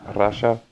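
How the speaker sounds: "Rasha" with a Russian-accented R. Shown as a demonstration. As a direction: attempt a Russian R at the start of "Rasha". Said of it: "when speaking with a Russian accent".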